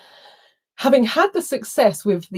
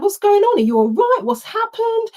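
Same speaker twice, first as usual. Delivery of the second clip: high concerned voice imitating a friend; worried friend; 14 semitones higher, 3 dB louder than usual. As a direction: echo her worried questions, pitched up. Friend asks in toilet.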